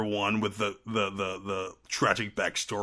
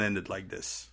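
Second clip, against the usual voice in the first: Trinidadian accent; 2 semitones lower, 7 dB quieter than usual. Shown as a demonstration. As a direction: slip back into a Trinidadian lilt. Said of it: "breaking back down into my accent".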